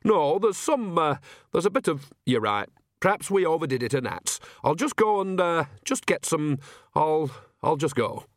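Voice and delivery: put-on sheepish old woman trailing away; flustered Nanny Ogg. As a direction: bumble your way out of the conversation. Voices Nanny backing away flustered.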